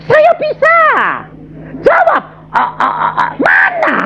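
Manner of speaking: very high strained cries; frantic struggling student. Retold or imitated. Student stammering in the exam, very high and strained. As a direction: choke on the words in panic. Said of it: "Saya bilang".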